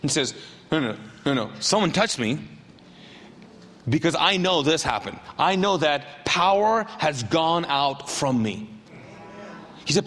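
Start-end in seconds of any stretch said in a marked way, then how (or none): 0.7-8.7 low, measured insistence; solemn Jesus. Acted. Jesus insisting someone touched him, low and solemn. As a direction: lower the voice and stretch the final phrase.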